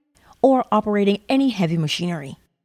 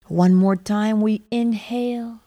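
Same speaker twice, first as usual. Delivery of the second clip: guided meditation. Acted. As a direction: ease the listener into calm.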